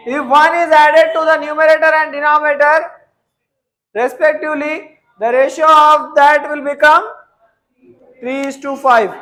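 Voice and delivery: slow, word by word for note taking; teacher dictating a maths problem; slow dictation. Acted. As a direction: read it out slowly so students can copy.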